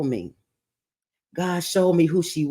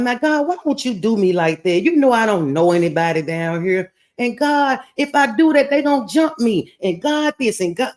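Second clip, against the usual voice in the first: pleading with God; 6 semitones higher than usual. Retold or imitated. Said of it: "I'm giving God every excuse".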